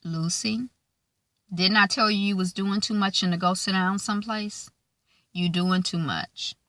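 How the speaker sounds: scolding mother. Retold or imitated. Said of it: "Lucy is like".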